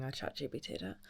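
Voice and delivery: retainer lisp, slushy ch; talking around a retainer, slurred sibilants. Real, not acted. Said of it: "sorry, got my retainer in".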